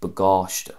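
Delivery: "bagáiste" as buh-GAWSH-tuh; stress toward the end. Shown as a demonstration. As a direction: stress the long second syllable of "bagáiste". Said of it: "stress on the end".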